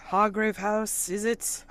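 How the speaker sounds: a policeman who knows his name; knowing constable. Acted. Constable sizes him up.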